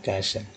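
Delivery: castle without any T sound; silent T in castle. Shown as a demonstration. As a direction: say castle with the T dropped. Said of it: "टी को silent कर दिया गया". (castle में T silent)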